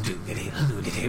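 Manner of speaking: low, soft droning "do do do do"; mock didgeridoo drone. Podcaster mimics an entertainer's didgeridoo, a low soft drone. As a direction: hum it like a didgeridoo. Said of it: "what his didgeridoo".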